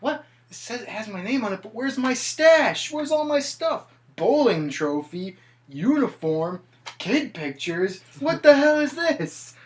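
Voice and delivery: high, loud, frantic disbelief; outraged disbelief. Retold or imitated. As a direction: shriek it out as he finds his stash gone. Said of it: "he's like".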